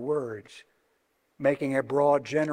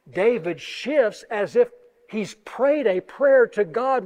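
ordinary delivery

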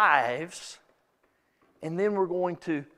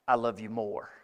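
much lower, softer I love you more; soft reply; 10 semitones lower, 6 dB quieter than usual. Retold or imitated. Spouse answering back the loving phrase, low and soft.

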